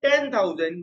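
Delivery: each word drawn out for writing; slow dictation. Shown as a demonstration. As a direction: dictate it slowly to the class. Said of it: "मैं बड़ा करता हूँ थोड़ा सा". (छात्रों को धीरे-धीरे लिखवाना)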